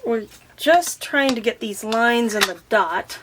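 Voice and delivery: slightly slurred with a numb mouth. Real, not acted. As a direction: talk through a numb mouth from the dentist. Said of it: "I'm a little numb still".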